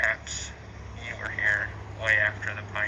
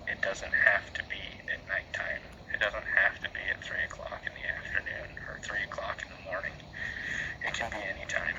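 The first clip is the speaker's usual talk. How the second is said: whispering; 3 dB quieter than usual. Real, not acted. Whispering to spirits on ghost hunt.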